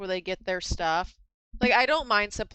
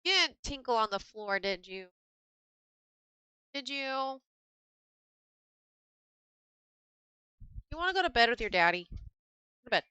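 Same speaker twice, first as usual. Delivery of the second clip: talking to dog; 2 semitones higher, 3 dB quieter than usual. Real, not acted. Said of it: "I'm talking to my dog".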